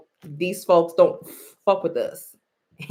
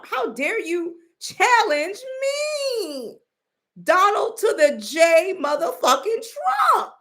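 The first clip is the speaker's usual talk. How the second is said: Donald Trump; 11 semitones higher than usual. Acted. Imitating the president announcing himself to challengers, mad. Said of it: "he's mad".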